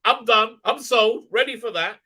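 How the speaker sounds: loud, high, instantly won over; mock sold-out fan. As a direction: blurt it out like a fan who's totally sold. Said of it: "I was like".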